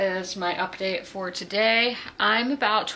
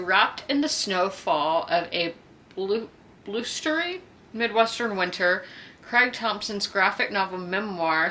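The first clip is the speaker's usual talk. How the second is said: measured book-blurb read; reading a blurb aloud; slower than usual. Real, not acted. Vlogger shares the book's description, read aloud. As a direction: read it out slowly from the back cover.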